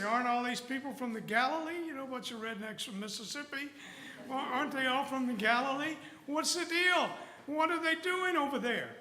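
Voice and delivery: mock onlookers who can't believe it; baffled crowd. Preacher voicing bewildered foreign Jews, rising incredulous.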